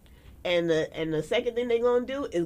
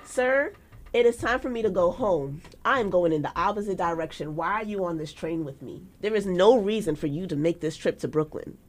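mock formal; 5 dB louder than usual. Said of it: "formal lecture to a stranger on the train".

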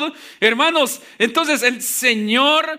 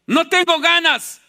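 slightly hammed-up excuse, pitched higher; mock excuse; 5 semitones higher than usual. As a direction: act out a reluctant churchgoer's protest. Preacher acts out congregants' excuses. (excusa fingida, en tono más agudo)

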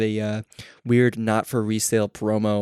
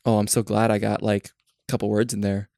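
snarky. Retold or imitated. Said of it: "snarky comment".

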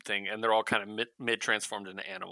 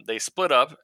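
ordinary delivery

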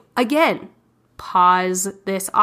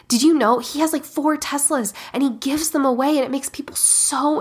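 higher, gushing with feeling about Uncle Rick; excited; 3 semitones higher than usual. Shown as a demonstration. Host contrasts an empty belief with an emotional story, excited. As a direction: sell it like a heartfelt story. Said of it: "Do you see the difference there?".

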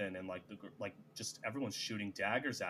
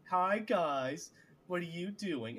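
high, loud mock greeting from a preening lord; foppish lord; 7 semitones higher, 3 dB louder, slower than usual. Narrator mimics Lord Luke greeting the group, high and loud. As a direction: ham up a prancing nobleman's hello.

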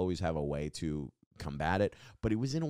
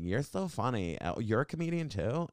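higher-pitched mock fan voice; gushing girls, imitated; 5 semitones higher than usual. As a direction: lightly mimic gushing young women.

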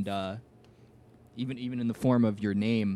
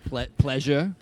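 put-on South African accent; 2 semitones higher than usual. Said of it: "that is not a South African accent".

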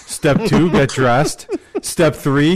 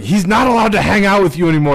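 mock angry wife; 5 semitones higher, faster than usual. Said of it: "she was like".

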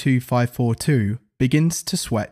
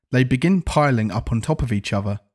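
ordinary delivery

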